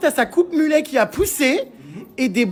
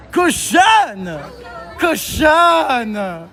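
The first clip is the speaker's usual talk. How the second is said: shouted nickname; much slower than usual. Real, not acted. Greeting friends with nickname.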